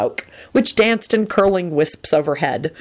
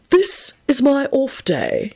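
put-on irritable old headmaster; 9 semitones higher, slower than usual. A narrator's reading. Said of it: "he told the boys irritably".

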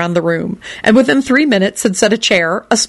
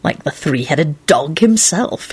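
gloomy; 2 semitones lower, slower than usual. Acted. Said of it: "he replied gloomily".

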